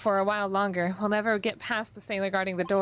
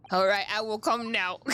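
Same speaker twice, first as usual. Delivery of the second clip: character voice. Acted. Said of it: "What's this voice I'm giving?".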